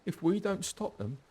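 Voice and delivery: a shaken survivor recounting the massacre; frightened refugee. Acted.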